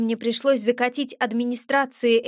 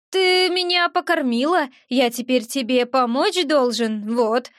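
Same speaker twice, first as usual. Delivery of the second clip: lightly voiced little creature, eager; a hint of an earnest little gremlin. Little gremlin explains his debt to the witch, earnest.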